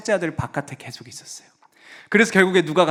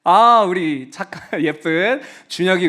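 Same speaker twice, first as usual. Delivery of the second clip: warm praise; 5 dB louder than usual. Real, not acted. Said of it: "praising children in class".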